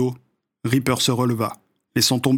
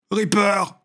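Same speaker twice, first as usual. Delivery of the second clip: urgent cry; 8 semitones higher than usual. Acted. Blackie begins to plead.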